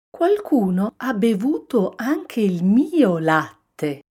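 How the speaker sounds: mama bear exclaiming. A narrator's reading. Mama bear finding her milk drunk too, exclaiming. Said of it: "esclamò mamma orsa".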